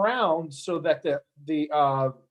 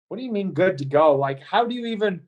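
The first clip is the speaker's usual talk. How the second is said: imitating baffled onlookers; mock bewildered questioning; incredulous; 4 semitones higher than usual. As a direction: voice other people's disbelief, pitch lifting. Voicing everybody's doubting reaction.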